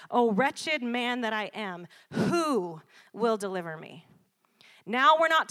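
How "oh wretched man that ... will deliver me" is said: anguished Paul. Retold or imitated. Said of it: "he has a powerful revelation when he says".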